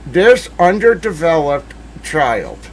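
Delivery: slow, disgusted insult; slow contemptuous put-down; retold sneer. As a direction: spit it out slowly in contempt. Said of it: "I was like".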